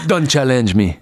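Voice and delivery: put-on lightly accented Belgian action hero; a hint of Van Damme's Belgian accent; Van Damme impression. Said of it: "the best Van Damme impressions".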